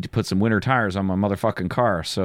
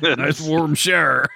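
amused repeat; 6 semitones higher, 3 dB louder, slower than usual. Real, not acted.

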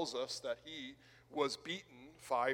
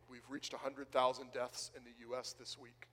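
lower, softer, heavy acknowledgement; subdued admission; 4 semitones lower, 8 dB quieter than usual. Acted. Churchgoer conceding another grief to Paul, subdued. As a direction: admit it quietly.

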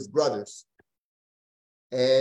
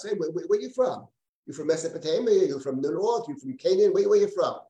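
mock interrogation, pitched up; hostile questioning; 3 semitones higher than usual. Joseph grilling the brothers on their origins, mildly hostile. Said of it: "hear some hostility".

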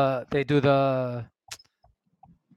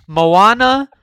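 big announcer call of the title; hype announcement; 6 semitones higher, 13 dB louder than usual. Real, not acted. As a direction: belt it like a ring announcer. Announcing the matchup.

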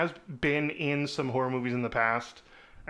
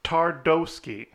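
put-on German accent; 3 semitones higher, 4 dB louder, much slower than usual. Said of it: "Maybe we shouldn't do the German accent".

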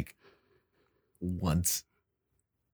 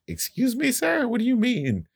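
mock indignant; 12 semitones higher than usual. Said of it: "it was just like".

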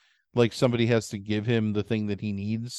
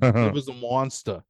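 put-on Boston accent. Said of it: "talking like that all the time".

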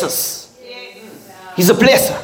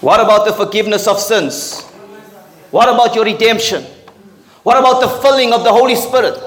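higher and faster, building up; rising preaching; 5 semitones higher, faster than usual. Real, not acted. Preacher challenging the congregation, higher and faster. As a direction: press each question harder.

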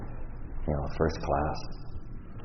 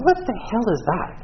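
asking sponsor, bewildered; 3 dB louder than usual. Retold or imitated. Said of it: "I looked at my sponsor".

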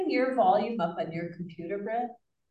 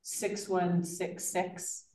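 slow dictation; much slower than usual. Real, not acted. Dictating phone number digits.

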